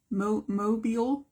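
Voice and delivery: mobile said as MO-beel; questioning pronunciation. Shown as a demonstration. Art teacher checking her word with viewers, unsure MO-beel. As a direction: try out "mobile" with a long ee in the second syllable. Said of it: "that's how I".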